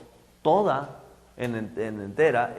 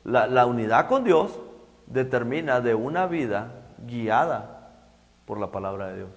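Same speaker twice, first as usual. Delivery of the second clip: emphatic repeat; 3 semitones lower than usual. Shown as a demonstration. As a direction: restate it deliberately, phrase by phrase, dropping away at the end.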